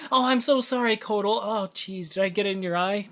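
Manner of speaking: high, flustered apologetic voice; nervous groveling. Retold or imitated. Aaron Black apologizing to Kotal, high flustered groveling. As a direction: babble the apologies like an anxious employee. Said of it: "when he screws up... like".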